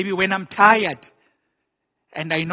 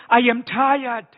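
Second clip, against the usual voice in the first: slow, heavy and louder, leaning on I; God's weary declaration; 5 semitones higher, 4 dB louder, slower than usual. Acted. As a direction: proclaim it slowly as the tired Lord. Preacher voicing God's weariness.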